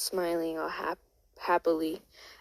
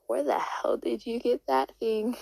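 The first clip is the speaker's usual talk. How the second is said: higher-pitched, mildly incredulous question; lightly acted disbelief; incredulous demand; 5 semitones higher than usual. Carol confronts John in story.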